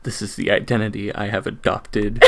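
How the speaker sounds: low, soft, over-enunciated narration; enunciated narrator voice. Pretend. Putting on an identity for a sibling, enunciated narrator voice. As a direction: narrate it with stiff, careful diction. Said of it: "enunciated narrator voice".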